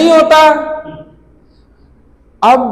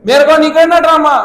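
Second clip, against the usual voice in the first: shouting back; 5 semitones higher than usual. Retold or imitated. Shouting back over the wall.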